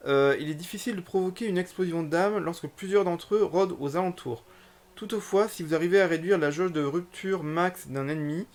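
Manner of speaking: reading a game tutorial aloud; slightly formal read-out of game text. Acted. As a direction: read on-screen instructions out, phrase by phrase.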